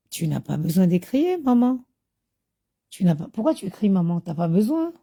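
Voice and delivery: a child's unruffled questioning of mother, imitated; mock-serene kid talking Mum down; imitated calm. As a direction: gently reason with Mum, rising at the ends. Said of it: "ils ont souvent un calme".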